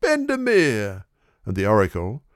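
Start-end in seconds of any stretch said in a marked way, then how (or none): 0.0-1.1 high, drawn-out cheer of a horse's name; crowd shout. A narrator's reading. Crowd cheering on Bendemeer, high and stretched out. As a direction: cry the name out from the stands. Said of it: "a shout of".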